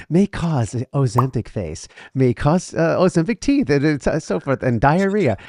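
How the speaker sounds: mock drug commercial disclaimer; lightly imitating a drug ad voice-over; pharmaceutical ad. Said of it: "you sounded like a, a, a drug commercial".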